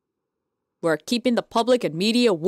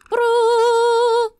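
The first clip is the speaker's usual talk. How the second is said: louder, higher exasperated bro; high disbelieving bro; 10 semitones higher, 6 dB louder than usual. Real, not acted. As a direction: react in disbelief. Reacting to the game.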